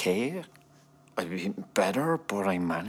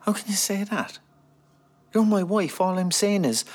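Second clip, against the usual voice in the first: higher, louder wounded outburst; hurt protest; 12 semitones higher, 6 dB louder than usual. Acted. Husband protesting to wife about sex remark, higher and louder. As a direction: push back, stung by her words. Husband stung, arguing back.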